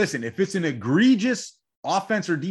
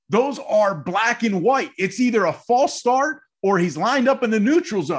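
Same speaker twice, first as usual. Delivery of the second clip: loud, high and fired up; 5 semitones higher, 4 dB louder than usual. Real, not acted. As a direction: passionate rant, shouting the end. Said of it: "clearly fired up and passionate about that".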